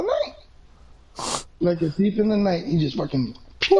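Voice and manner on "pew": quick "pew" vanishing noise; imitated whoosh. Player telling how his friend snuck off, imitated whoosh. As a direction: make a zipping getaway sound.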